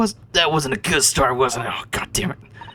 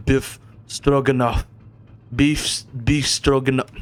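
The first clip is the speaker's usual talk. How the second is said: indignant Russian crewman. Acted. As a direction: announce yourself as a proud Russian sailor. Voices Stroganoff, the Russian crewman.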